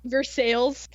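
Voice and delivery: Versailles said as "ver-SALES"; butchered French name. Shown as a demonstration. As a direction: Versailles read English-style, with the final s sounded. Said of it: "we already butcher all of their names".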